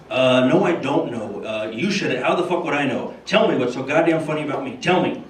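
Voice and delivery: lightly voiced Carson, mock anger; a hint of Pesci demanding; Johnny Carson as Pesci. Carson presses Bush, understated mock menace. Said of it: "George Bush and Johnny Carson".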